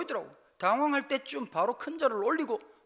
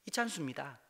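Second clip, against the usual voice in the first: typical Pastor Lee Chan-su; 6 semitones lower, 9 dB quieter than usual. Retold or imitated. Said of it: "전형적인 이찬수 목사님".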